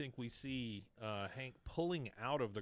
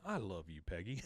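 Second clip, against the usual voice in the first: softer, lower retold endearment; mock tenderness; 4 semitones lower, 5 dB quieter than usual. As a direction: imitate a husband's quiet affection. Retold declaration of love to wife.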